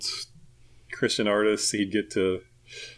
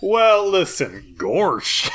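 hick voice; 9 semitones higher, 6 dB louder, much slower than usual. Pretend. Goofy folksy exclamation.

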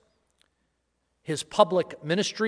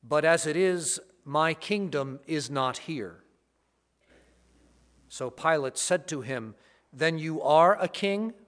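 Gospel reading. Acted. Gospel proclamation at Mass.

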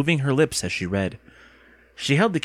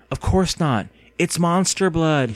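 slow, raised, hammed-up vampire voice; Count Dracula; 6 semitones higher, slower than usual. A narrator's reading. Girl teases boy about the can, mock vampire voice. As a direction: stretch it out like a stagey vampire. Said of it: "imitating Count Dracula".

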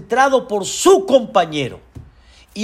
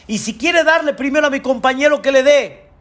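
eager urging; 7 semitones higher, faster than usual. Real, not acted. Preacher urging generous prayer.

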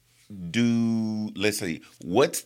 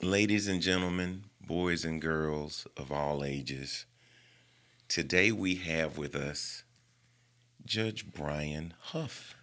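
ringmaster; slower than usual. Pretend. Host introduces guest like showman.

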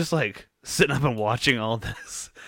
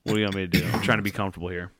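dog's grumpy inner voice; 4 semitones lower, 4 dB quieter, much faster than usual. Retold or imitated. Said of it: "The dog just going".

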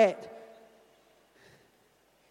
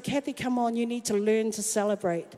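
gentle urging; 5 semitones lower, 6 dB quieter than usual. Retold or imitated. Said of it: "the Holy Spirit said".

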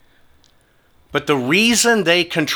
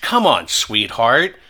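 mock sweet taunt; 3 semitones higher than usual. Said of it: "pissing him off more and more".

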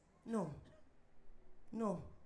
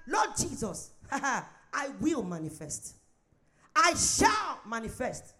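mock biblical prophet; slower than usual. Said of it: "Our prayer this morning is that".

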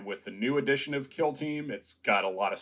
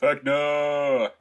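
excited; 5 semitones higher, 5 dB louder than usual. Real, not acted. Excited shout of villain's name.

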